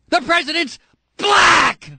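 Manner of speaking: BLACK! drawn out in a long, high, loud yell; high outraged shout, hammering and stretching "black!"; emphatic shout. Real, not acted. Host rebuking birther callers, emphatic shouting. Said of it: "I'll say it again with emphasis".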